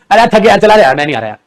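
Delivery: यार stretched with a tired sigh; tired Hindi whine. Shown as a demonstration. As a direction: sound worn out and done with it. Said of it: "Hindi में बोले".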